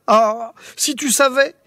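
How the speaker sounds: a hint of a cross king; furious scolding. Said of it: "Furieux, le roi la gronda".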